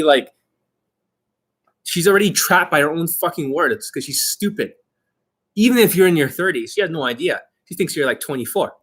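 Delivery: normal talking voice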